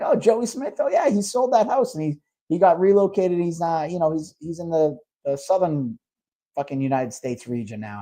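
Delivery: a high, breezy imitation of the rep that sinks back toward the speaker's own voice at the end; mocking the rep. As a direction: sound chirpy and clueless. Rep's reply retold, voiced high.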